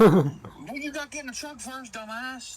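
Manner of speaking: high, loud teasing jab; mocking retort. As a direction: needle your panicking buddy. The speaker mocking the scared friend.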